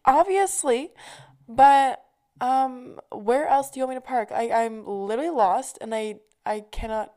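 high, loud, frazzled comeback; exasperated retort. Retold or imitated. To the lady who said she can't park, exasperated. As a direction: snap back, fed up and lost.

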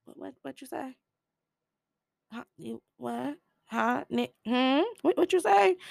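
high, incredulous; can't believe what he heard; hammed-up outrage; shocked disbelief. Outraged reaction to slur.

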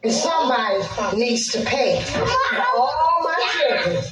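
angry outcry climbing high. Real, not acted. Single mother demanding that somebody pay, angry. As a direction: let real anger push the pitch up. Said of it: "she was angry at the system".

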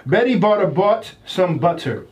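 careful demo of the tongue twister; slow reading. Shown as a demonstration. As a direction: read it out slowly and clearly. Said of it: "this one says".

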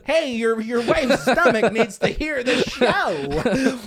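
loud, slow, laughing joke plea; laughing mock plea. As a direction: call it out through a laugh, hammed up. Joking plea to wife's stomach.

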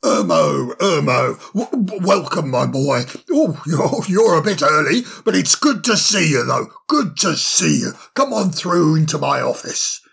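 put-on cheery, fussy old owl voice; bustling, delighted host; jolly old owl. Solly the owl greets Ermo.

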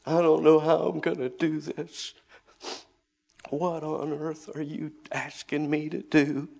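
high, loud anguished crying out; reenacted wailing lament; retold bawling. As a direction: cry out in despair to God. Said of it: "and I start to bawl".

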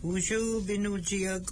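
cheerful greeting. Real, not acted. Greeting children again.

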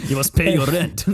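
mock landlord.

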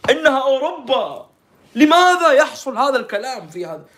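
high, loud imitation of tearful outrage; hammed-up wailing disbelief; mock crying. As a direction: plead it like a distraught reporter. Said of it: "هي جالسة تبكي".

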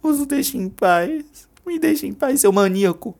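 high, slow, loud screaming; furious scream through the door; furious shout. Acted. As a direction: yell him away. Júlia screams at Travis.

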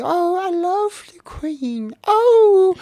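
high, slow put-on British accent; hammed-up British royal fan; mock posh British. Mocking British royal fans in a high, slow posh British accent.

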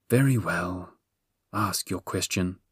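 mildly sulky Sphinx giving in. A narrator's reading. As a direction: concede with a touch of a sulk. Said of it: "she said sulkily".

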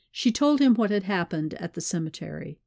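usual speaking voice

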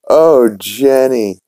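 moaning a name in his sleep, slow and high; drawn-out moan. Retold or imitated. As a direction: stretch the oh like a pleasant dream.

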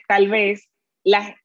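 slow, stretched "tal vez la", searching for words; hesitant, slowed "tal vez"; drawn-out hesitation. Real, not acted. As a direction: draw out tal vez while thinking. Interviewer hedging a question.

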